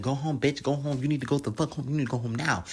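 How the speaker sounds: taunting yell. Retold or imitated. Drea taunting Jane Doe, a high mocking yell. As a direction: jeer at her to go home. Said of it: "She's like".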